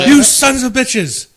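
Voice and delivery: slow, high, loud mock fury; yelling and swearing. Pranked man to his roomful of friends, yelling and swearing. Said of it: "he's, like, yelling and swearing at us".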